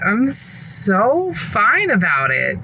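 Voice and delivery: slow, drawn-out fake calm; sarcastic fine. Real, not acted. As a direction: stretch it out, clearly not fine.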